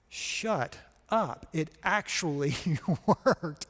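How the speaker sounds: laughing, amazed, slowing down on worked; can't believe the letter worked; stunned disbelief. Real, not acted. Looking at his phone after the voicemail, laughing in disbelief.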